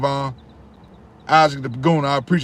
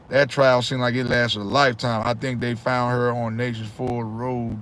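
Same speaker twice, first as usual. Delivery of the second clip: normal talking voice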